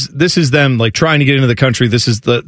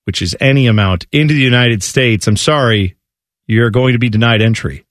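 mock officer. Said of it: "David Caruso type thing".

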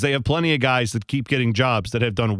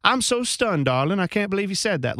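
soft Southern belle; 4 semitones higher, faster than usual. Retold or imitated. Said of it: "Hollywood movie set in the eighteen hundreds".

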